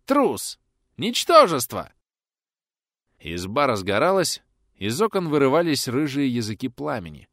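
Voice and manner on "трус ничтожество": high furious shriek; shrieking insults. Acted. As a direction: spit the insults at a scream. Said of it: "срываясь на визг, крикнул бандит".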